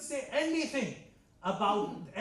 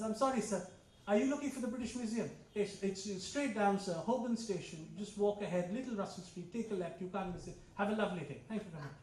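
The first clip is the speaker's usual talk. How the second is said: polite Englishman; 3 semitones lower, 5 dB quieter than usual. Retold or imitated. Polite Englishman voiced in story.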